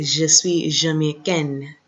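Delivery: Je suis Jamaïcaine, slow, with the final n sounded; feminine ending. Shown as a demonstration. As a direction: land on the n in Jamaïcaine. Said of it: "Because of that E".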